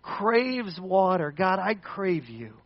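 slow longing prayer. Acted. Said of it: "where he says".

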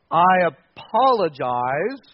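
slow, drawn-out formal apology; evasive apology. Acted. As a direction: stretch out the formal word to dodge sorry. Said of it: "I don't have to say".

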